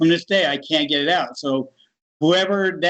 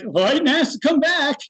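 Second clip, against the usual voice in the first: high retort; 9 semitones higher than usual. Retold or imitated. Retort to voice in near-death.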